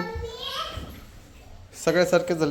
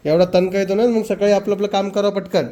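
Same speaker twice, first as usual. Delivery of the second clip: higher, louder complaint; scolding; 5 semitones higher, 6 dB louder than usual. Real, not acted. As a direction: nag them to hurry up. Scolding about late routine.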